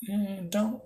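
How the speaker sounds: a quick high warning, lightly acted; warning the commoner. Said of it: "as he goes".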